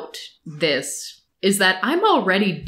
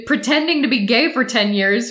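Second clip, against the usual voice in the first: ordinary talk, nothing marked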